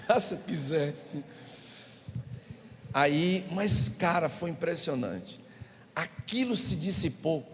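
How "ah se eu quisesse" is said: slow, drawn-out "Ah, se eu quisesse" with a hint of menace; if I only wanted. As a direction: let the threat hang. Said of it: "Era vontade de".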